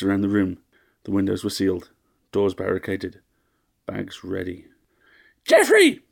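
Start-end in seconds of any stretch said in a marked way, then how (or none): 5.5-6.0 very high, scolding matron; shrill old lady. A narrator's reading. Fussy mistress nagging her butler, high and shrill. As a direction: shriek the name, then whine slowly.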